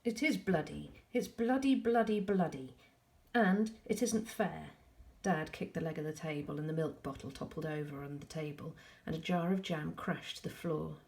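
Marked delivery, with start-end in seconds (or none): 0.0-4.7 loud and defiant, higher; defiant shout. A narrator's reading. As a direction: throw it back at him. Boy defies dad.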